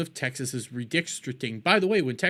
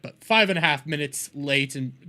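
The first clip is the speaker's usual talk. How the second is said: hiccups; 2 semitones lower than usual. Real, not acted. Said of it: "I'm hiccuping".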